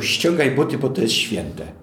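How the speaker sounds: a stranger's bossy demand; sharp command. Retold or imitated. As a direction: snap it at someone out of nowhere. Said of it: "ktoś by ci powiedział".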